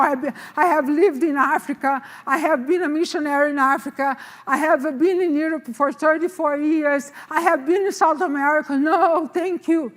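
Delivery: insistent, rattled-off list of reasons; firm refusal. Retold or imitated. Acts out her firm refusal.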